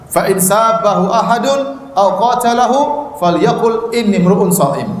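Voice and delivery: slow, measured Arabic recitation; chanted Arabic quote, unhurried; hadith recitation. Acted. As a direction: intone the hadith slowly and carefully.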